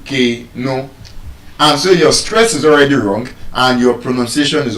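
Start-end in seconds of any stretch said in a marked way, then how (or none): 0.0-0.9 K, no as KAY-no, first syllable raised; pitch up on first syllable. Shown as a demonstration. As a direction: stress K, let no drop away. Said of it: "your pitch goes up in that first syllable".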